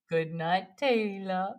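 put-on a soft, quiet toddler voice; softly, like a little boy saying good night; quoting a toddler. Mother imitating her son saying good night. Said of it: "he said".

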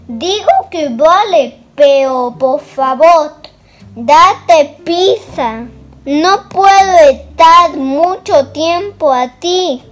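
wolf urging the rabbit to hurry; impatient wolf. Acted. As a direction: hurry him along as the wolf. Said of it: "dijo el lobo".

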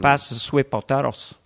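put-on light Scarface-style Cuban accent; catchphrase in a comic Cuban accent; Tony Montana accent. Tony Montana at Thanksgiving dinner, Cuban accent. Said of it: "in that accent".

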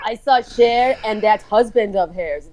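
lightly imitated Iranian-accented English; Iranian mom's accent. Daughter quoting mom's celebrity story, light Iranian accent. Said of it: "my mom is Iranian".

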